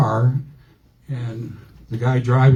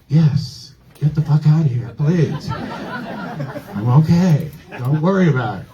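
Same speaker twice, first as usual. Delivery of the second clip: higher-pitched, laugh-tinged urgent brush-off; flustered dismissal; 3 semitones higher than usual. Retold or imitated. Comic telling his sister to get out, flustered. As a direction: act out shooing an intruder away. Acting out sending sister away.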